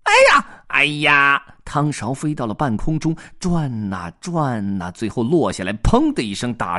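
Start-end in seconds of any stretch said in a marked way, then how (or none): 0.0-1.4 loud, higher alarmed yelp; startled cry. Acted. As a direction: yelp as the ladle flies. Ladle flies into the air.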